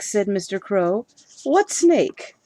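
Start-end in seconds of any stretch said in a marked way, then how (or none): 1.4-2.4 startled. Acted. Husband startled.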